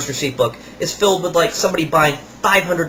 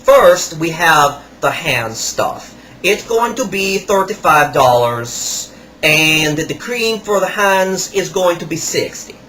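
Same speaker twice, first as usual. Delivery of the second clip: higher, slow put-on salesman voice; imitating the salesman; 4 semitones higher, slower than usual. Kiosk salesman rubbing salt on a customer's hands, imitated higher and slower. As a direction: ham up the pushy kiosk seller. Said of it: "So he goes".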